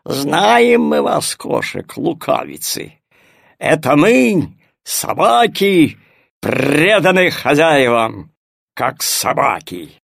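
slow, gruff loyal dog; growling dog voice. Acted. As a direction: bark it out like a proud dog. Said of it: "зарычал пёс Тиво". (рычащий голос пса)

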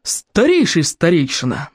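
slow, mildly booming call; booming address. Acted. Woman addressing the eldest elder, booming. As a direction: boom it out slowly. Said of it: "грянула Берта Буйбаба".

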